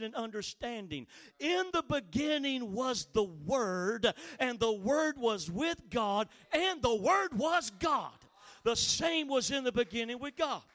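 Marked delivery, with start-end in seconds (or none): 1.4-10.6 preacher declaiming a Bible verse; emphatic scripture reading. Acted. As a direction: proclaim the verse word by weighty word. Reads scripture in preaching style.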